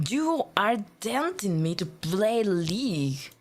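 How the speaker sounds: slow, emphatic "tempting"; mock accusation. Blaming viewers for playing League, slow mock accusation. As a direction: spell out "tempting" slowly, as playful blame.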